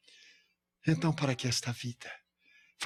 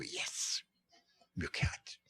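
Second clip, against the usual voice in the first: breathy whispered "Yes, Milk Hat"; soft whisper, almost silent; whispered reply; 7 semitones higher, 9 dB quieter, much slower than usual. Retold or imitated. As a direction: answer in a hushed breath. Quiet reply in the greeting.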